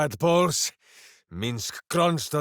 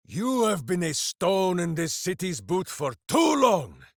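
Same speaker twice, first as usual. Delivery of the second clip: heroic taunt; 2 semitones higher than usual. Acted. Berserker taunting foe.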